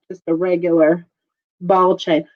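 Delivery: wheezing while talking; wheezy. Real, not acted. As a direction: talk through a wheeze. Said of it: "I'm wheezing".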